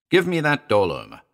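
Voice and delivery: sharp angry snap; snapped. Acted. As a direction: snap the order at her. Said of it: "he snapped".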